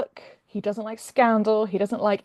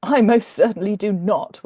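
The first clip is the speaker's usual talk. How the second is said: gruffly; 6 dB louder than usual. Acted. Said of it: "William said gruffly".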